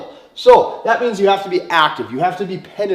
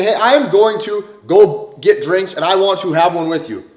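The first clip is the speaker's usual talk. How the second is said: confident invitation; 5 dB louder than usual. Shown as a demonstration. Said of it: "It's energy, it's tone".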